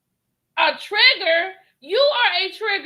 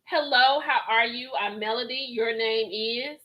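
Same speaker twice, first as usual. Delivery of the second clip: mock Mel. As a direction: voice Mel, first baffled then fake-sweet. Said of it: "And I'm like".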